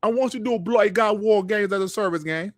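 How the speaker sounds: quick, half-hearted mock British accent; terrible British accent. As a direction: rattle it off in a bad British accent. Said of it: "let me do my terrible British accent".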